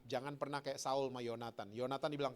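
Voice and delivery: normal talking voice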